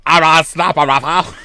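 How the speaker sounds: slow, teasing, with a laugh; drawn-out mocking laugh. Real, not acted. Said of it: "Don't say that".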